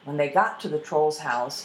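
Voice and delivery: ordinary delivery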